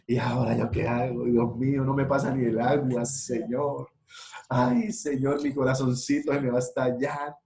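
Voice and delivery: a lightly voiced heartbroken lover, pleading to God; mock despair, half-sobbed; heartbroken lament. A jilted lover crying out to God, mock despair.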